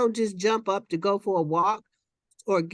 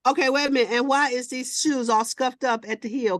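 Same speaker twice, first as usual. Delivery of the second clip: imitating mama. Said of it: "here go my mama".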